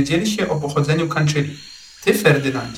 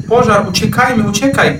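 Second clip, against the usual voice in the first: loud, much higher terrified cry of Pożar; panicked roar; 7 semitones higher, 5 dB louder than usual. A narrator's reading. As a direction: panic rising, scream to flee. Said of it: "ryczały przerażone jelenie". (przerażony, głośny i wysoki krzyk)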